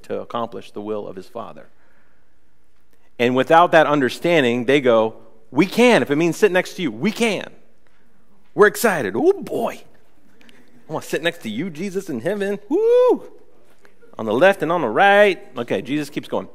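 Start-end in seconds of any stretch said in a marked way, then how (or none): 5.5-15.4 excited disciples. Retold or imitated. Disciples begging Jesus for heaven seats, giddy high voice. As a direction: bounce like overeager kids.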